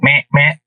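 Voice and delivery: short mock buck-stopping grunts; two little hunter's deer-call grunts; imitated deer grunt. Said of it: "start to kinda grunt at him".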